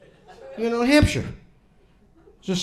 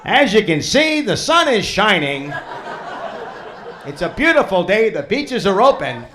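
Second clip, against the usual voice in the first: higher, lightly performed public announcer; hint of a proclamation to beachgoers; mock official announcement; 4 semitones higher than usual. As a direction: mimic an upbeat official beach report.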